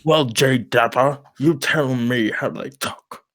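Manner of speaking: put-on slow, drawn-out old Brit challenge; pretend elderly British man. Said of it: "pretending to be a really elderly British man".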